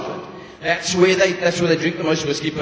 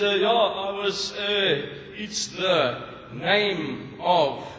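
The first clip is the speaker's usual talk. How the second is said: softer, slow hesitant excuse; sheepish stalling; 6 dB quieter, much slower than usual. Acted. Husband caught with a woman's number, softer slow sheepish stalling. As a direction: stall under your breath, caught out.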